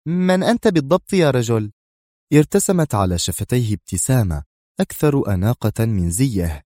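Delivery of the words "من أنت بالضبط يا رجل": higher, wary question; lightly voiced cautious woman. A narrator's reading. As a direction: ask the stranger carefully. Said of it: "تسأله في حذر".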